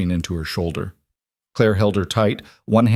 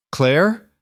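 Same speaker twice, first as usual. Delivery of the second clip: put-on small, high child's questioning call; small, broken voice; 8 semitones higher than usual. A narrator's reading. Tearful girl sees the woman arrive, small broken voice. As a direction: say the name high and fragile, rising. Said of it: "voice was so small, so broken".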